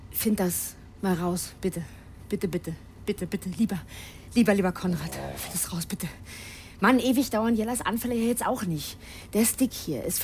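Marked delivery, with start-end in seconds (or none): 0.1-6.1 pleading. Acted. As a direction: coax him like a begging child. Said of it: "rede mal bitte anders mit mir".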